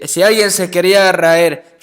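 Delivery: ordinary talk, nothing marked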